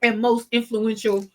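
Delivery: clearing throat mid-sentence; speaking with a tickly cough; through a cough. Real, not acted. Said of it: "I got a cough now".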